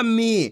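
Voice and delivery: मी with the ee drawn out; teacher's drawn-out मी; stretched long ee. Shown as a demonstration. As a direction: hold the vowel in मी, then let it fall. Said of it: "खींच के पढ़ा जाता है".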